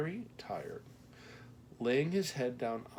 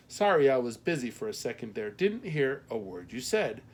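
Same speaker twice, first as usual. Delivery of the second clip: lightly voiced Midwestern postmaster, louder; a hint of Midwestern matron on the phone; Midwestern accent; 7 dB louder than usual. A narrator's reading. Postmaster claims she heard nothing, Midwestern accent. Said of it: "her Midwestern accent left no doubt".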